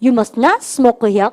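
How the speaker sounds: every word drawn out very slowly; slow drill. Shown as a demonstration. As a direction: spell it out slowly for repetition. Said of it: "시작".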